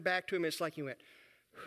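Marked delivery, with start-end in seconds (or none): 1.5-1.6 relieved sigh. Retold or imitated. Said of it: "to sigh or breathe strongly".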